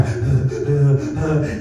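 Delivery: acted panting breaths; imitated hyperventilating. Student on the phone to mom, mock hyperventilating. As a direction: pant heavily, mimicking an anxiety attack. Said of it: "I'm just hyperventilating".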